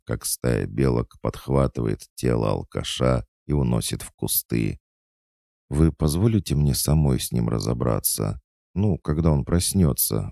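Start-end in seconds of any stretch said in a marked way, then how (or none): 5.7-10.3 slightly raised, mild entreaty; pleading. Acted. Manager asking to deal with him herself, pleading. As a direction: beg leave to handle it yourself. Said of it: "взмолилась Виктория".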